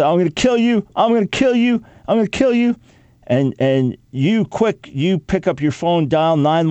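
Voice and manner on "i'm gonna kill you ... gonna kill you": imitated killer's threat. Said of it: "and they say".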